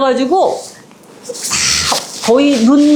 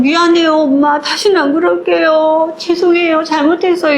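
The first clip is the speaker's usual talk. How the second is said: pleading apology; 6 semitones higher than usual. Retold or imitated. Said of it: "이러면서 너무 정말 미안해해".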